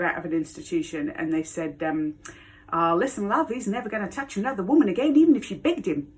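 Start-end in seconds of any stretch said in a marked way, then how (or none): 2.7-6.1 hammed-up Australian accent, pitch climbing; terrible Australian accent. Police reassuring the woman he attacked, bad Australian accent. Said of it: "which is my terrible Australian accent".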